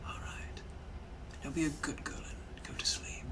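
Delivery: hushed, menacing British gentleman; soft Victorian British villain purring threats. Acted. Captor to his prisoner, hushed menacing British accent. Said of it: "I'm also a British gentleman from the eighteen hundreds".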